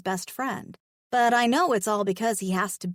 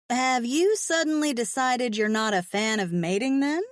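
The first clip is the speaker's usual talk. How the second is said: playful tease; 3 semitones higher than usual. Acted. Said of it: "I tease".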